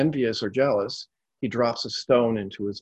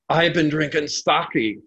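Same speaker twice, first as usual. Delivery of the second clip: put-on slow, louder drunken bellow; 5 semitones higher, 4 dB louder, slower than usual. A narrator's reading. Laborer answering the old man, slow bellow. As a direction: bellow it back defiantly. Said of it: "the laborer bellowed back".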